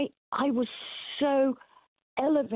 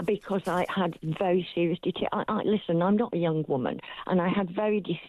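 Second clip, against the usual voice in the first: talking through clenched teeth; speaking with a wired jaw; jaw wired shut. Real, not acted. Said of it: "So I'm speaking through my teeth".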